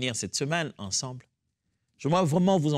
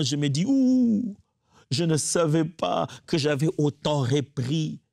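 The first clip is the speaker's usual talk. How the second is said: fervent prayer; 3 semitones higher than usual. Acted. Pastor prays aloud for the congregation, growing fervent. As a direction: pray with growing fervour.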